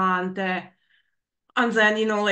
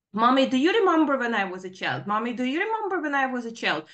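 passive-aggressive mocking; 3 semitones higher, faster than usual. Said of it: "passively aggressively snapping".

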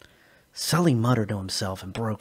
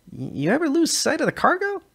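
much higher, stammering and tense; nervous; 5 dB louder than usual. Acted. Nervous Peng grilling Sully about the cargo, high and tense. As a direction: fret it out fast.

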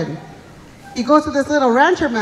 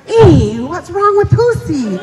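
puzzled dogs; 2 semitones higher, 5 dB louder, slower than usual. Acted. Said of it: "all the Autumn dogs are like".

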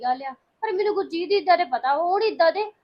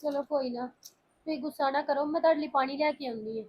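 soothing; 4 dB quieter than usual. Acted. Calming an upset friend.

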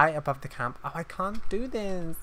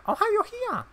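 much higher, caught off guard; surprised hi. Real, not acted. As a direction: pop up in pitch, startled. Surprised to find character there.

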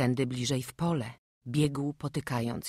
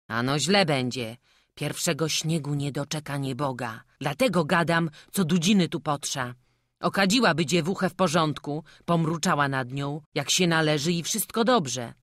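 slightly raised, lightly voiced villager; knowing village gossip; 5 dB louder than usual. Villager warns the bride needs incense, lightly voiced firm warning. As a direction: pronounce the verdict with mild firmness. Acted villager foretelling doom.

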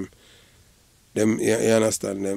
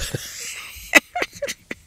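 airy, very high laughter; 3 dB quieter than usual. Real, not acted. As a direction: burst out laughing. Laughs at Ninja Man joke.

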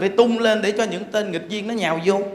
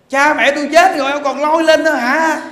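higher, louder, laughing outrage; indignant retort; 7 semitones higher, 7 dB louder than usual. Acted. Wife snapping at husband for dragging up her dead parents. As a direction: throw it back at him, half laughing.

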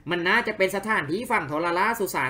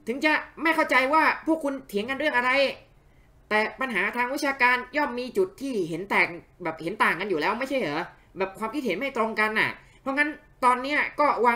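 lightly raised, gentle peacemaking character; calm the two scholars down; peacemaker voice; 6 semitones higher than usual. Acted. (เสียงตัวละครห้ามทัพแบบเบาๆ)

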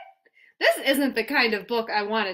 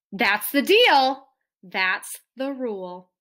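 firm and stern; 2 semitones lower than usual. Acted. Reads the strict rule.

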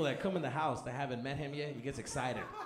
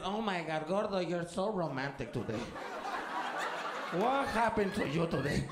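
swooning mom. Retold or imitated. Mom charmed by dad's grinding, mock swoon. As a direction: gush like a flattered wife.

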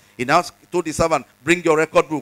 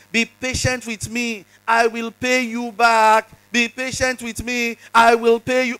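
pleading; 5 semitones higher than usual. Acted. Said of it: "fell on his knees and begged him".

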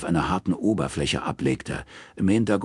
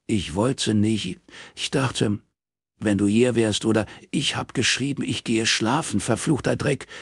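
angry yell, pitched well higher; 5 semitones higher than usual. Acted. Robin yelling at Morris down the phone, furious. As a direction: bellow it into the phone. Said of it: "brüllte Robin ihn an".

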